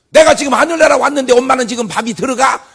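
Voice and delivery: high, loud, indignant scolding; mock rude son. Imagined rude son scolding his mother, high loud mock outrage.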